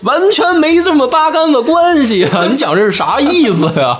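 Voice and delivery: high, whiny protest to dad; a daughter squeals her protest at her father, high and hammed-up; mock whiny daughter. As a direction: whine it up high like a put-out daughter.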